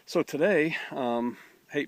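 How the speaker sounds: can't hold back the joy; excited announcement. Real, not acted. Pastor bursting to tell viewers the well news, excited.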